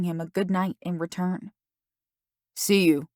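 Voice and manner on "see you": a bit more audible. A narrator's reading. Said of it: "he said more audibly in parting".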